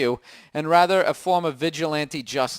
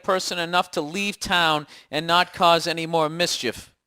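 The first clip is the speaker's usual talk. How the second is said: rereading the article aloud, slow at end. Shown as a demonstration. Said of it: "The aim was to hurt".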